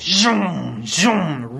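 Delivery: buzzy imitated vroom, twice; zooming noise. A narrator's reading. George went really fast, zooming noise. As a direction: make the sound of something speeding past.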